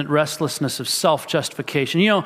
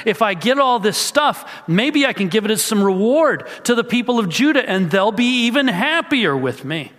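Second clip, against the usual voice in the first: voicing Saul's scheming; 5 semitones higher than usual. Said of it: "worrying about what other people think".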